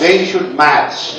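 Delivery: They should match, slow and clear; slow it down to model; model slowly. Shown as a demonstration. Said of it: "pronounce it match".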